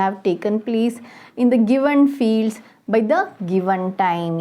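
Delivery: reading the worksheet aloud slowly, word by word; teacher reading instructions slowly to pupils; slow dictation read. Acted. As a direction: read the task out for the class at dictation pace.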